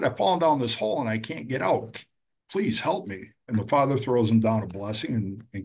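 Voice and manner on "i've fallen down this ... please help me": higher, pleading voice of a stuck man; pleading for help. Retold or imitated. Joe begs the priest from the hole, pitched up and pleading. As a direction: beg to be helped out.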